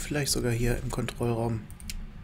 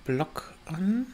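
whispering; 6 dB quieter, slower than usual. Real, not acted. Ghost hunt, quiet search.

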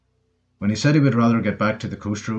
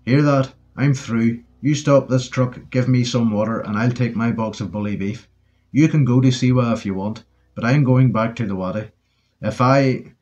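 angry yell. Acted. Curly yelling at Ted through the cab window. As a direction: shout him down, fed up. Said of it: "he yelled".

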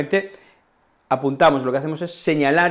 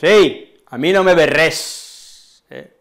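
telling someone off; 2 semitones higher, 5 dB louder, much slower than usual. Retold or imitated. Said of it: "le decimos".

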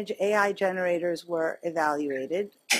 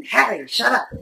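laughing; 2 semitones higher, 6 dB louder than usual. Retold or imitated. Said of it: "she's like".

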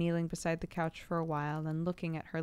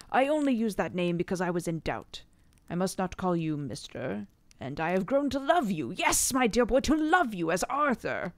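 sweetly; 2 semitones higher, 5 dB louder than usual. A narrator's reading. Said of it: "The professor answered sweetly".

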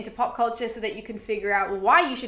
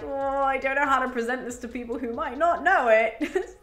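nervous laugh. Retold or imitated. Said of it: "it's more like nervous laughter".

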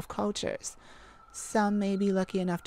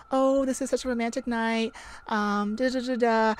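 mock rewind; 5 semitones higher than usual. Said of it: "Okay, let's rewind".

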